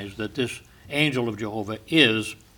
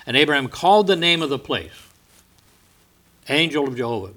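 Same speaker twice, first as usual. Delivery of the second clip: raised, solemn, declaiming reading of scripture; faster than usual. Acted. Preacher reading Genesis to his congregation, solemn declaiming. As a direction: proclaim the verses to the congregation. Reads Genesis aloud in sermon.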